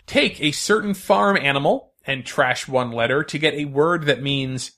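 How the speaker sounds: slow, clear quiz reading; quiz host. Acted. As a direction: read the clue like a game host.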